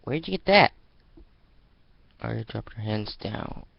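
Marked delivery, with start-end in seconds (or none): 0.0-0.7 high, loud, eager question; eager gasp. Acted. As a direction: blurt it out, eyes on the can. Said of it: "She gasped sharply".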